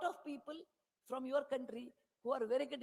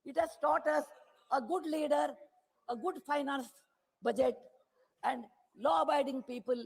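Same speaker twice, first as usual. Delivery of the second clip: louder, hammering parliamentary speech; impassioned oratory; 6 dB louder than usual. Acted. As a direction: drive each point home to the House.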